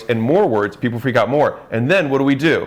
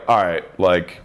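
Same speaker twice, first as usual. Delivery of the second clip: lower, matter-of-fact stern retelling; 4 semitones lower than usual. Retold or imitated. Husband fed up with wife's bad mood, mildly stern. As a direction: lay down the limit, mildly stern. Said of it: "I would then get stern and be like".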